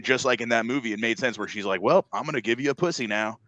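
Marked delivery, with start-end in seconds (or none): 1.8-3.4 mock shout breaking into laughter; laughing mock shout. Giving the character's line with a laughing mock shout.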